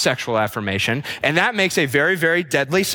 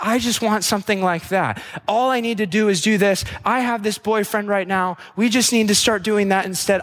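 lightly higher mock girly voice, gushing; girl voice; 4 semitones higher than usual. Pastor mocking a starry-eyed listener in a light girly voice. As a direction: play a starry-eyed girlfriend, a touch girly. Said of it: "I'm doing a girl voice".

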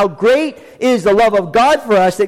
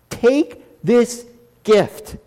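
slow tender appeal; 4 semitones higher, much slower than usual. Acted. Preacher's quiet appeal.

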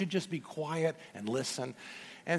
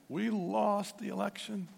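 imitating an upset woman; 5 semitones higher, 5 dB quieter than usual. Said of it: "She's just shaking and so upset".

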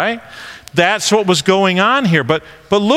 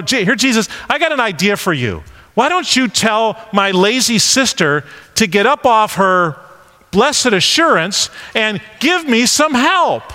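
mock Martha; 3 semitones higher than usual. Mocking Martha's demand.

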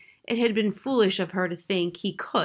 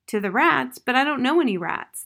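higher, louder, incredulous questioning; startled disbelief; 5 semitones higher, 5 dB louder than usual. A narrator's reading. Mouse told by the owl to go to the rats, startled. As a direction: blurt it out, pitch and volume jumping.

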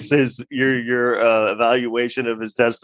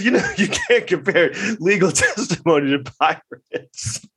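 imitating a snarky lawyer, laughing; 3 semitones higher than usual. Lawyer slipping in a jab at the witness, snarky and amused. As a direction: slip the dig in through giggles. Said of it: "basically making snarky comments".

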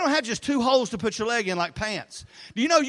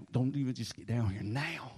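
barely holding it together; tense order; 9 semitones lower, 9 dB quieter than usual. Retold or imitated. Pastor cutting off son's question, low tense insistence. Frustrated dad repeating order.

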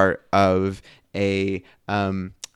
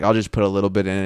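begrudging; 3 dB louder, much faster than usual. Retold or imitated. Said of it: "so begrudging".

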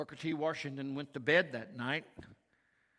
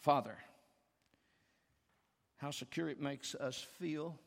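measured prayer with long pauses; public prayer. Real, not acted. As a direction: pray aloud to the Father, unhurried. Leads the congregation in prayer.

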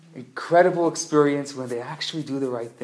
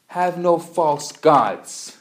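slow, weighty reading; 7 dB louder, much slower than usual. Retold or imitated. Reading commandment slowly, stressed.

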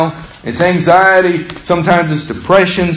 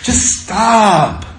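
exasperated plea; 4 semitones higher than usual. Retold or imitated. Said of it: "tell your voice in your head".

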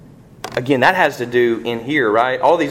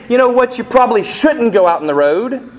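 mock gentle suggestion; 10 semitones higher, 4 dB louder than usual. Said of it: "I don't say".

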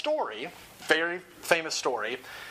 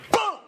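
imitated gunshot boom; 5 dB louder than usual.

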